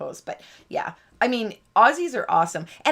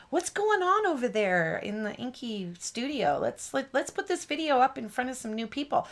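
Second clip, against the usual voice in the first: YouTube voice; 3 semitones higher, 4 dB quieter than usual. Pretend. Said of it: "then YouTube goes".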